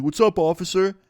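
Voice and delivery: high-pitched imitation of a too-casual greeting; putting on innocence. Driver greeting the officer at his window, imitated forced casualness. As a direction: act the friend playing it cool.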